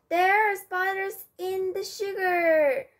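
squeal. A narrator's reading. Pirate squeals in alarm.

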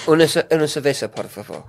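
"una cerveza, por favor" as an English speaker's Spanish; Spanish phrase. Shown as a demonstration. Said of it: "That's how you say Spanish".

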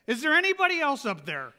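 man hanging off a cliff, shouting upward; panicked punchline. Acted. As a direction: call out hoping for anyone else. Punchline, man doubts God's answer.

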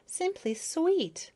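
high, slow adoring gush. A narrator's reading. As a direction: gush over his feelers. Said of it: "fascinating feelers".

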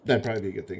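talking through hiccups; interrupted by small hiccups. Real, not acted. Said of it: "I have the hiccups".

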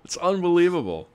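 marvel, voice climbing high; awed. Real, not acted. Awed at food on screen.

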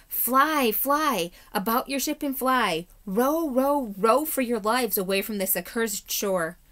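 frantic high loud cry of terror; terrified warning. A narrator's reading. Stranger begging the crew to flee, frantic terror. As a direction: scream the warning like a man fleeing death.

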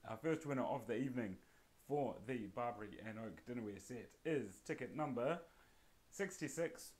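game-show reveal of the ticket; winner announcement. Acted. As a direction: announce the winning ticket with a rising flourish.

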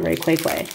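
Rayquaza with a doubled "kway"; Rayquaza said "ray-kway-kway". Retold or imitated. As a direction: repeat the "kway" sound in place of "quaza". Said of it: "I think Rayquaque sounds really funny".

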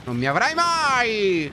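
slow theatrical vow; dramatic defiance. Pretend. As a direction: declaim it like a villain. (sfida teatrale e lenta)

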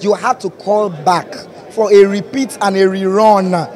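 hyped red carpet host intro; gushing red carpet chatter. Acted. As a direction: announce her like a star arriving.

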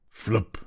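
short popped sound-effect word; hat whisked away. A narrator's reading. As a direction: flick the word out quickly. Hats fly off in wind.

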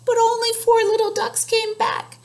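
put-on a touch lifted, telling the kids; story narration. A narrator's reading. Reading the story aloud.

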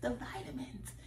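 high, whiny little-voice excuses; a hint of a sheepish kid pleading with her sister. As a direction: beg off like a kid caught snacking. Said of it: "I'd be like".

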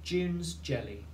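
spaced out for a spelling test; slow classroom dictation. Shown as a demonstration. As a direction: say it slowly so children can write. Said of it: "Two words".

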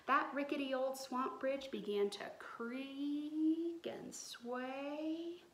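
slow whispered story narration; storyteller whispering a spooky bit; suspense whisper. A narrator's reading. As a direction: hush it slowly to build suspense.

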